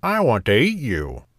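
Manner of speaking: lightly voiced hungry pig; a hint of a storybook pig; snorting pig. A narrator's reading. Pig calls to the passing gingerbread man, lightly voiced. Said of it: "snorted the pig".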